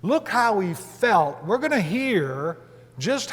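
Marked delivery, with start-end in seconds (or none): 0.0-1.4 "felt" stretched and emphasized; slow down and press on "felt"; stress on felt. Real, not acted. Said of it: "I'm emphasizing this".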